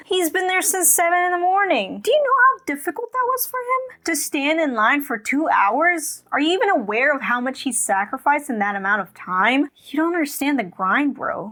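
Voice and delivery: high, indignant mock outrage; sarcastic mock defense. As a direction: sarcastically defend him, pitch up. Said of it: "Kidding aside".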